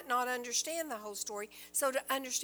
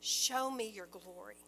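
tender plea; 3 semitones lower than usual. Retold or imitated. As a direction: ask gently out of love. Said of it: "a heart that is overflowing with love".

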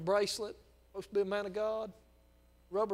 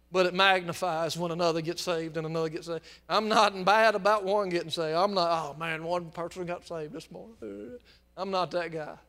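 excited preaching; 5 dB louder than usual. Real, not acted. Preacher exults over salvations.

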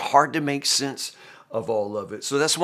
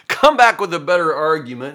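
louder, emphatic dare; Job's challenge; 3 semitones higher, 5 dB louder than usual. Acted. Preacher voices Job daring his friends, challenging. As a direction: throw down a mild challenge.

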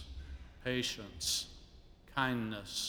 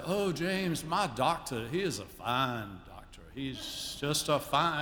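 lightly voiced elegant lady; imitating Gwen; 3 semitones higher, slower than usual. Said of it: "I can't do her elegant accent".

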